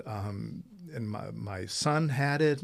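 normal talking voice

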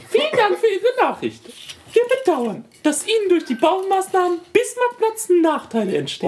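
very high squeaky letter reading. Acted. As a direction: pipe the words way up high. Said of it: "jetzt muss ich erstmal verstellen".

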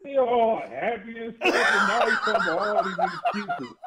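laughing while mocking his excuses; laughing tease. Real, not acted. Teasing a Falcons fan about his excuses, laughing.

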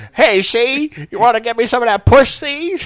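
mock his sleazy voice; hammed-up tough-guy flirt; imitating his porn voice. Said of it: "you're like".

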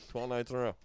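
talking through a mouthful of bread; words round a bite of baguette; chewing crusty bread. Real, not acted. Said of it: "good podcasting with bread in your mouth".

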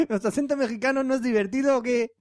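badly faked Mexican accent that drifts countries. Host teasing about the listener's accent, bad Mexican accent. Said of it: "ha saltado un par de países".

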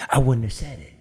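mimicking Kirby. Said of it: "She went like this".

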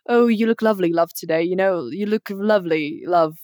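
put-on light British accent; British endearment. Friend explaining love as a form of address, British accent. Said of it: "like in British".

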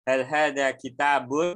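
"Hal hada kitabun" asked as a question; question tune. Shown as a demonstration. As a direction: end "kitabun" on a slight rise. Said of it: "hal itu sebenarnya kata tanya".

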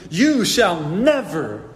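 stubborn refusal. Acted. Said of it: "So he says in verse eight".

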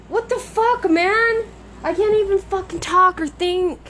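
very high frustrated squeal; exasperated whine. Real, not acted. Scolding herself for fumbling words, high exasperated whine. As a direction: wail it in a high, exasperated pitch.

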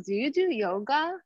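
lightly mimicked odd woman's question; blunt stranger. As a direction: fire it at her like a stranger with no hello. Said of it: "Like that".

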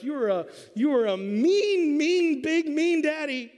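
put-on high, loud child's yell; angry little girl. Little daughter yells at dad, in a high loud child's voice. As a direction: yell it like a furious small girl. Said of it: "Lexi's like".

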